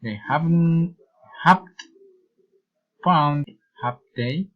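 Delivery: "have they" lifts at the end; deliberate statement, then a rising "have they"; tag-question intonation. Shown as a demonstration. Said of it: "following of reason intonation".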